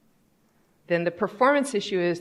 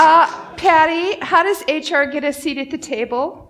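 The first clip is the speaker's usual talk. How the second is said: high, loud, whiny mock questioner; imitated audience question, pitched way up; mock conference questioner; 9 semitones higher, 8 dB louder than usual. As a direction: parody someone asking a naive question.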